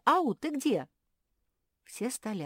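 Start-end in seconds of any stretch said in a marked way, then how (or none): 0.1-0.9 громко и высоко зовёт подругу, ау; кричит в пустой коридор, ищет собаку; зовёт Горти. Acted. Мафи зовёт пропавшую Горти. (Мафи громко зовёт пропавшую Горти)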